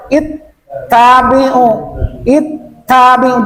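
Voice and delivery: "ittabi'u" slowly with a held t; doubled consonant. Shown as a demonstration. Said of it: "Kalau musadah tuh".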